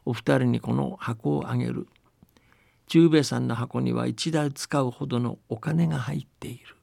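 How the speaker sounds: calm folktale reading, unhurried; storytelling narration. A narrator's reading. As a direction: tell it like an old village tale. Reads a folktale aloud.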